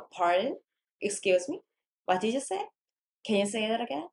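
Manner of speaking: questioning, as if you missed it; feigned incomprehension. Shown as a demonstration. Teacher asking student to repeat, pretending not to have understood. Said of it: "못 알아들은 척 하는 거지".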